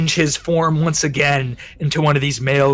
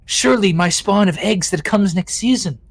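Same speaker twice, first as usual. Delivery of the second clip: swooning queen voice; 4 semitones higher than usual. Acted. Queen gushing about mate.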